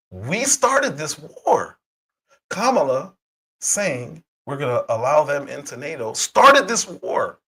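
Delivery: cracking voice, slow and heavy. Real, not acted. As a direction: let the voice crack on the words. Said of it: "Sorry, my voice is cracking".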